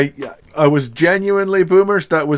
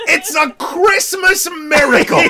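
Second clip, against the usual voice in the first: laughing; 11 semitones higher than usual. Real, not acted. Overjoyed at reveal.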